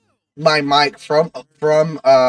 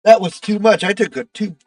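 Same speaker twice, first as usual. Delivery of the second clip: sputtering and wheezing from a bad inhale, real; choke, laugh and gasp between words; coughing and laughing fit. Real, not acted. Streamer to chat after inhaling too much, coughing and laughing for real. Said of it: "that inhale was a little too much".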